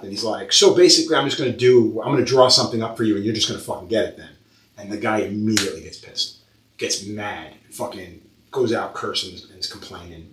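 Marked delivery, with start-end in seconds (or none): 0.5-4.3 sharp, fast, fed-up reply; retold snap, rushed and irritated; snapping at client. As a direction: snap back at the picky client. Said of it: "So Adam fucking snapped".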